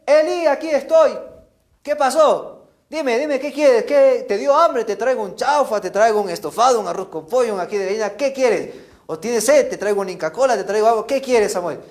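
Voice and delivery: high, insistent mock eagerness; eager questioning. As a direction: rattle off offers like an over-keen helper. Samuel runs eagerly to wake Elí.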